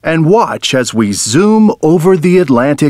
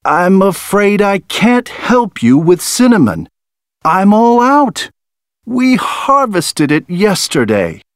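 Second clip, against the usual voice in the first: higher, lightly sad farmer; a touch of sorrow, higher; 6 semitones higher than usual. A narrator's reading. Patrick speaks, then sad.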